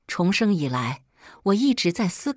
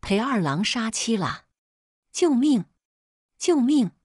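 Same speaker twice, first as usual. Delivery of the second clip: crying for help; 5 semitones higher than usual. A narrator's reading. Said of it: "口中直叫".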